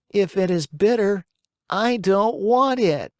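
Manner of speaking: put-on high, petulant puppet child refusing; a spoiled boy haggling over medicine; stubborn puppet boy. A narrator's reading. Pinocchio voiced in story.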